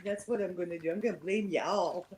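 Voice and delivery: lightly put-on Southern twang; playful Southern accent. Streamer teases the co-host about blame, light Southern accent. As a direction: lean into a Southern accent for a moment. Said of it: "my Southern accent".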